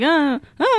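incoherent little grunts; imitated sleep-talk noises. Showing friends one's own sleep talk, incoherent noises. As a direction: mimic meaningless sleep mumbles. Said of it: "incoherent things".

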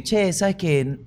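imitating an Argentine. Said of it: "llegaba un argentino y".

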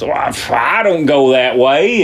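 huffy refusal, lightly acted; mad and huffy. Miner refusing the bartender's suggestion, mad and huffy. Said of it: "he gets all mad and huffy".

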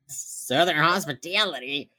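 slow mock Southern accent; awful Southern accent. Mimicking JJ's joke, awful Southern accent. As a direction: imitate a badly faked Southern drawl. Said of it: "That accent was awful".

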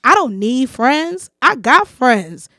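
slow, loud, punched-out contempt; scornful dismissal. Retold or imitated. Woman quoting the man who rejected her as a friend, scornful. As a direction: imitate him scornfully rejecting friendship, building to the insult.

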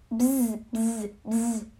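soft bzz, bzz, bzz; bee buzzing. A narrator's reading. Narrator imitating bees buzzing softly. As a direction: buzz it like bees, quietly.

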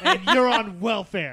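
put-on scolding a kid through laughter; laughing mock scolding. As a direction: scold the kid while cracking up. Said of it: "And I was like".

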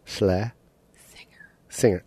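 Schle then Singer, slowly; split syllables. Shown as a demonstration. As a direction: break Schle. Singer. into two parts. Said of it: "Okay, say Schle".

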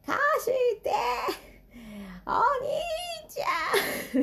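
put-on high-pitched toddler shouting to borrow the toy; little sister's high cry of "貸して" at her brother. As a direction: yell like a three-year-old who wants it now. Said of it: "ものすごいアピール".

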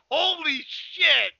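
high, slow, drawn-out holy shit; reliving awed disbelief. Retold or imitated. Telling his friend about the explosion, stunned and drawn-out. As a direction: let it out slowly, stunned. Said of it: "and I was like".

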